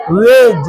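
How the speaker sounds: "वेज" with only j at the end; silent d. Shown as a demonstration. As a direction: say "वेज" without a d stop. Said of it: "डी silent".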